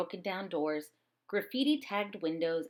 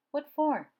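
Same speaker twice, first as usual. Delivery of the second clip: grandma questioning; 8 semitones higher, 6 dB louder than usual. Acted.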